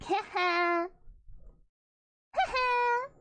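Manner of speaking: mock-sly little laugh, lightly voiced; a teasing heh heh, playful; sly chuckle. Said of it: "And she's like".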